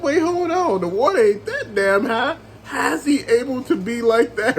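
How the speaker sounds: mock disbelief. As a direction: act out balking at the movie's logic. Retells own disbelief at film.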